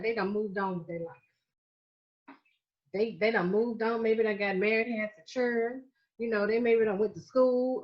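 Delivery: Southern accent. Shown as a demonstration. Florida speaker playing up a light Southern accent to her listeners. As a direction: slip into a mild Southern accent for a laugh. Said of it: "Okay, that was a Southern accent".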